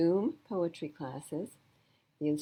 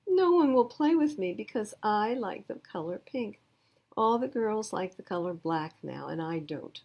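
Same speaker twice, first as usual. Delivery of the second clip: put-on upset little girl; 4 semitones higher, 5 dB louder than usual. Girl complains to Daddy.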